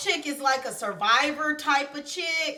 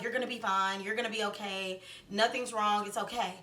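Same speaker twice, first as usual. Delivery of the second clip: low, soft soothing voice; mock-comforting, hushed and low; imitated reassurance; 4 semitones lower, 7 dB quieter, faster than usual. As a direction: calmly brush off a worried friend, quietly. Group soothing the bitten friend.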